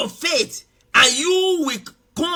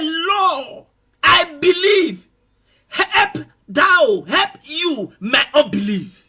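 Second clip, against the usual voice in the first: tearful plea; 3 semitones higher, much slower than usual. Acted. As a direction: cry out to the Lord, begging. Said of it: "and said with tears".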